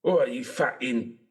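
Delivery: hammed-up Cockney hardman sneer; playing a lightly put-on Cockney thug; mock Cockney accent. Mocking the actor's Cockney, hammed-up Cockney. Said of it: "took a British accent".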